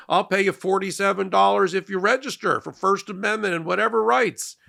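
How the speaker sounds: playful mock South African accent. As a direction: put on a wobbly South African accent as you quote him. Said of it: "I don't know what accent I'm doing. He's from South Africa".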